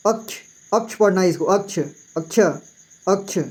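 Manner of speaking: "अक्ष" repeated with a clear k-sh cluster; model pronunciation. Shown as a demonstration. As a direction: drill the word "अक्ष" softly and clearly. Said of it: "इसको छ नहीं पढ़ना है".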